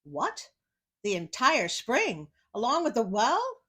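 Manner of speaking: mild disbelief, rising questions; a touch of giant shock; lightly surprised giant. Acted. Giant reacts to tailor's boast.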